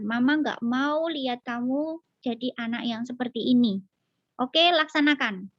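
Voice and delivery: steady firm instruction; mother firmly sending tantrum child to corner; calm firmness. Shown as a demonstration. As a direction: set the rule without anger. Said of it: "kita juga harus tegas".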